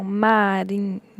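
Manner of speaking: "marinheiro" with NHEI set apart and stretched out; stressed syllable shown. Shown as a demonstration. Teacher showing the tonic syllable, "marinheiro" broken up with a long stressed NHEI. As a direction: hold the nhei in "marinheiro", then a separate ro. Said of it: "onde a pronúncia é mais forte".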